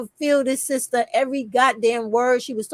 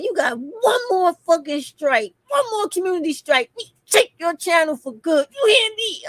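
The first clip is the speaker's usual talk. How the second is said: raised-pitch mock threat from the platform; mock platform warning; 5 semitones higher than usual. Platform warning her, in a mock stern voice. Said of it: "they was like".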